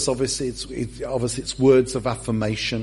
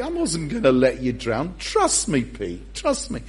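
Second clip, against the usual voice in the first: gentle, tender; 3 semitones lower than usual. Shown as a demonstration. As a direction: coax him kindly like a friend. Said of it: "I suspect he said it more like this".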